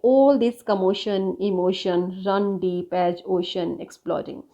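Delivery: very slow, deliberate poem line; slow dictation pace; slow recitation. Shown as a demonstration. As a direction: drag each word out so the sounds are heard. Reads poem example slowly.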